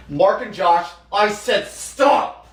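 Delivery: loud, slow "I said stop"; sharp yell. Acted. Teacher yelling at Mark and Josh to stop, loud and sharp. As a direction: bark the order across the room.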